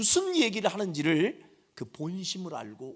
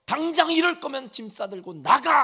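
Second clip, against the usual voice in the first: higher, louder stern shout; parent shouting; 9 semitones higher, 7 dB louder than usual. Retold or imitated. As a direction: roar it as a scolding parent. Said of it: "외쳤을까요".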